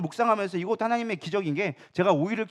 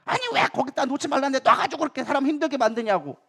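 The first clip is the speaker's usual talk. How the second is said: higher-pitched mock nagging; exasperated complaint; 4 semitones higher than usual. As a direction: act out griping at someone at home. Acted household complaint as example.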